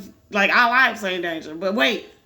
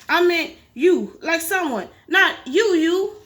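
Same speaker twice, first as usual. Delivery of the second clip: flustered; 7 semitones higher, 4 dB louder, slower than usual. Acted. Flustered Grover backpedals.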